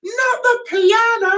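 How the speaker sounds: slow, high cry of "Not the piano"; hammed-up panic over a piano; mock shout. Quoting a passenger, mock shout. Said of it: "somebody said".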